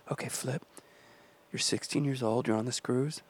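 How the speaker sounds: quiet, earnest pep talk to himself; hushed pep talk. Retold or imitated. Teen recording a pep talk for himself, hushed and earnest. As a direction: psych yourself up under your breath. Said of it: "I got on the microphone".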